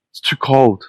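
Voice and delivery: high sneering repeat of too cold; mock the woman's whine; mocking echo. Echoing the woman's complaint in high mockery.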